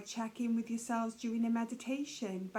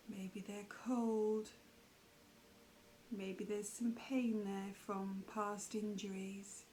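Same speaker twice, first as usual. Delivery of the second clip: guided meditation; 5 dB quieter than usual. Acted. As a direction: leave long pauses as you guide attention through the body.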